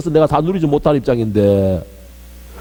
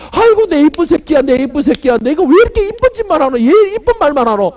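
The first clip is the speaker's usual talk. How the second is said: doting father God; 7 semitones higher than usual. Acted. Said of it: "하나님께서".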